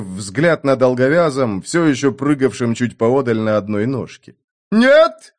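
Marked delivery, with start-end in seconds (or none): 4.7-5.3 high squeaky cry; squeaking. A narrator's reading. Innkeeper squeaking at the German to stop killing, high and shrill. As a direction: squeal it out in panic. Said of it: "запищал Петроний".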